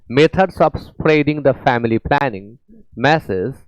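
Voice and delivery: very slow English, word by word; careful classroom reading pace; slow dictation reading. Shown as a demonstration. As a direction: read it out slowly for students. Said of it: "reads question sentence slowly".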